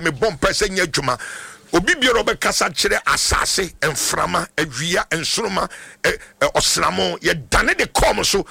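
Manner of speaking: insistent blessing building to an emphatic finish; fervent prayer. Real, not acted. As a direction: pray over the caller, swelling at the end. Prays for a caller on air.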